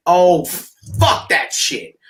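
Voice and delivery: slow, drawn-out disgusted groan; mock disgust. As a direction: drag it out like you can't believe it. Players reacting to Dalton signing.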